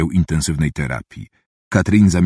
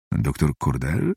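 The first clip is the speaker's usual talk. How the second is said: ciszej i wolniej, z troską w głosie; z nagłą troską; 6 semitones lower, 6 dB quieter, slower than usual. A narrator's reading. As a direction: zapytaj łagodnie, zaniepokojony o nią. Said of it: "zapytał z nagłą troską detektyw". (detektyw zatroskany pyta słabnącą lekarkę, cicho i wolno)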